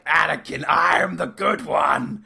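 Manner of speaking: slow, shouted, laughing declaration; mock hero claim. Anakin insisting he is the good one, slow laughing shout. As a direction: proclaim it grandly while cracking up. Anakin line acted mockingly.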